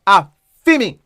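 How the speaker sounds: "A, fi me" with a beat before "fi me"; "A" then "fi me" run together; rhythm of "a fi me". Shown as a demonstration. Teacher drilling the phrase's rhythm, rhythmic Patois. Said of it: "it's two word".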